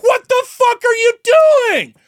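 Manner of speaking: a shouted inner monologue at the pastor's wife; internal screaming rant. Retold or imitated. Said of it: "screaming internally".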